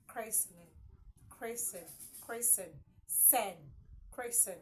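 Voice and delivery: christen and christening without T; silent T in christen. Shown as a demonstration. Teacher correcting the mistake, christen with silent T. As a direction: drill christen, picking out the sen. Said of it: "not christening of child".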